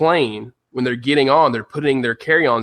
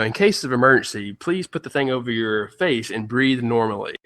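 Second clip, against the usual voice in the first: flight attendant announcement. Retold or imitated. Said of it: "the flight attendant comes on now and does the whole".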